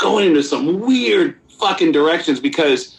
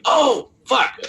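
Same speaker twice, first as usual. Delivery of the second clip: dismay; 11 semitones higher than usual. Retold or imitated. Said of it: "And I was like".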